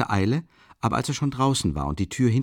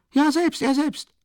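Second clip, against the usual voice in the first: much higher, slow, emphatic; emphatic insistence; 13 semitones higher, slower than usual. Acted. Friend confirms the investigator explained it himself, high and emphatic. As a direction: insist it was him himself.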